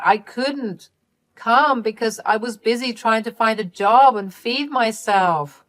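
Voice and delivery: loud, high burst of denial easing into excuses; pleading Candy. Acted. Daughter begging Mom and Dad to listen, pleading. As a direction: plead desperately to be believed.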